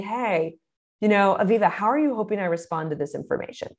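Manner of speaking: kind, quiet curiosity; gracious, soft. Shown as a demonstration. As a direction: ask it with a soft heart. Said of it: "the very gracious, again, soft heart of saying".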